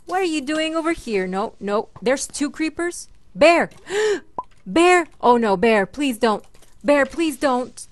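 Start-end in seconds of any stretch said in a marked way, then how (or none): 3.4-7.9 worried calling. Real, not acted. Dog near creepers.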